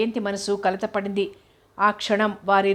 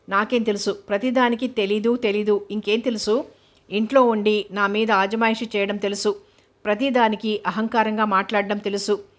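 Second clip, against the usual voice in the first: a touch of anger, building complaint; understated scolding rant; mild angry reproach. Acted. Husband scolding his wife over the guest, mildly angry. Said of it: "కోపంగా అడిగాడు".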